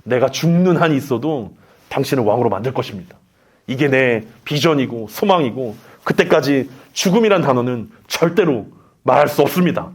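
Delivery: low, restrained menace; villain-like Peter. Acted. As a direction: act a villain laying down an ultimatum in a low voice. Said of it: "악역이 돼서 베드로가 막 이렇게 얘기하지".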